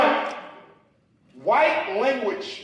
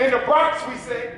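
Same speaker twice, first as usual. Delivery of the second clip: ordinary talk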